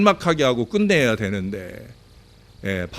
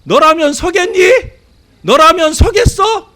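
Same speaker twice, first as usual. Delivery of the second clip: high, loud cheeky retort over the shoulder; thief shouting back; 14 semitones higher, 9 dB louder than usual. Retold or imitated. Fleeing thief yelling back at the police, loud and cheeky. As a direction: yell back mockingly while running off. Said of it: "뒤돌아보면서 이렇게 외쳤답니다".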